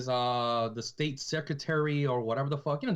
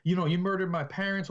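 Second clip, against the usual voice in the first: raised pitch, acted-out accusation; very emotional; 5 semitones higher than usual. Woman confronting her parents' killer, acted very emotional. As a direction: imitate an upset woman accusing someone. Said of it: "very, very emotional".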